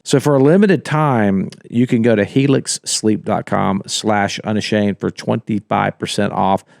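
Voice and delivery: upbeat sponsor ad read. Acted. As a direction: read it like a podcast ad. Reads the sponsor ad.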